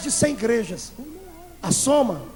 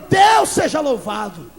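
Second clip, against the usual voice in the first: slow, drawn-out glory shout; preacher reliving his shout of joy in the car, slow and loud; 2 semitones higher, 5 dB louder, slower than usual. Retold or imitated. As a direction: raise a hand and praise out loud. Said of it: "dei um glória".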